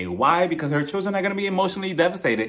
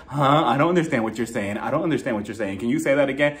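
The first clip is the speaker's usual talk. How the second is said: lightly mocking, lower-pitched confusion; feigned incomprehension; 4 semitones lower than usual. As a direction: play at not understanding. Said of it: "just pretending like".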